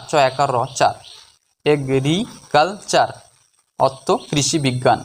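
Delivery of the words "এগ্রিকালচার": very slow, four separate syllables; drawn-out teaching breakdown of the word. Shown as a demonstration. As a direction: leave clear gaps between syllables. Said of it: "চারটি syllable বা চারটি অংশে".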